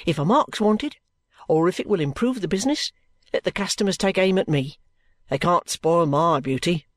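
lively, loyal soldier's speech; energetic offer. Acted. Phil volunteering to be a target, energetic and hearty. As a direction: offer yourself with gusto. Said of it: "energetically delivered".

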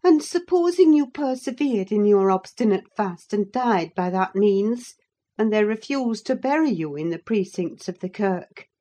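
appalled servant pressing; shocked Nelly. Acted. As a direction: confront his godlessness. Nelly challenges him.

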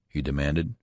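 ordinary delivery, nothing marked

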